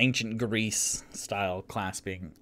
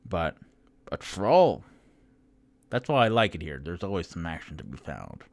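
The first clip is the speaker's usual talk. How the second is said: excited half-orc cheer; 6 dB louder than usual. Acted. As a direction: crow about the troll kill. Half-orc celebrates troll kill.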